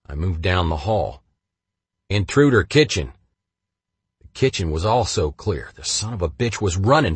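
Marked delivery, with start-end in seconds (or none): 2.1-3.1 computerized alarm voice. Retold or imitated. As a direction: announce it like a house alarm. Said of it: "alerted me with a computerized voice".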